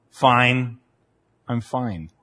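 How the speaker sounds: imitated wife insisting she's fine; mildly terse, meaning the opposite; loaded "fine". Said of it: "the way that word is intoned".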